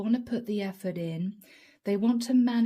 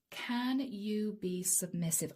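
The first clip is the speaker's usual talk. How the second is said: whispering; 6 dB quieter than usual. Real, not acted. Relaying a spirit message softly.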